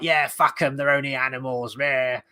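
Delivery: a hint of a careless Aussie whaler; Aussie accent. Reviewer mimics the Aussie whaler in the film, a light Aussie accent. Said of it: "he's like an Aussie in it".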